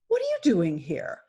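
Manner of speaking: lightly voiced big lion; big lion questioning. Lion looking over at the frozen cub, mildly stern.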